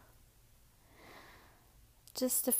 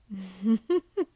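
mocking laugh; 6 dB louder than usual.

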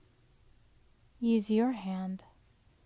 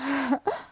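teasing giggle; 4 semitones higher, 6 dB louder than usual. Acted. Teasing laugh.

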